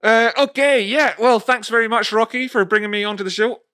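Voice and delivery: high, loud put-on guest voice; a silly character voice for the guest; playing Kim. Playing the guest Kim answering host Rocky, silly put-on voice.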